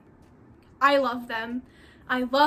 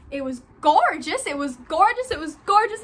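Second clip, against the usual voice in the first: building gush; 2 semitones higher, 4 dB louder than usual. Real, not acted. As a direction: gush more each time. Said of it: "gushing, repeating gorgeous".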